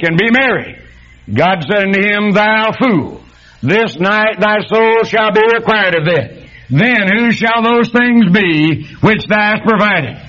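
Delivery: measured, solemn reading of the Bible passage; scripture reading. Acted. Reads the scripture passage aloud.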